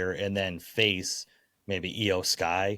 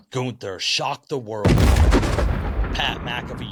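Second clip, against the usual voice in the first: hype announcer; 4 semitones higher, 5 dB louder than usual. Acted. Announcer-style hype prediction.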